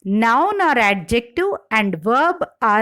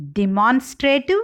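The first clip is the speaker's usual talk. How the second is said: demonstrative with MON stressed; second-syllable stress in demonstrative. Shown as a demonstration. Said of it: "Stress shift in derived words".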